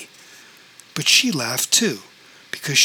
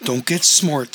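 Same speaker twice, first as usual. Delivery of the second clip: sharp rebuke; 3 dB louder than usual. Acted. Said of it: "said Celeste sharply".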